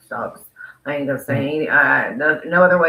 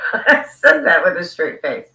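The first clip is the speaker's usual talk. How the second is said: laughing; 2 semitones higher, 5 dB louder than usual. Real, not acted. Laughing after a joke.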